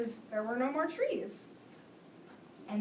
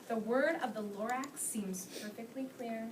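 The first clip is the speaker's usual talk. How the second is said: put-on reading to children. A narrator's reading. Teacher reads The Lorax aloud.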